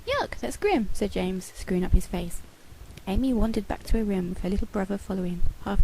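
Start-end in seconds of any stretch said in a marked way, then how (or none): 0.1-0.9 disgusted. A narrator's reading. James disgusted.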